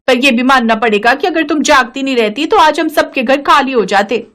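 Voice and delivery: half-scold, half-thank her, pitched a little up; lightly voiced grateful neighbour. Neighbour's voice in story.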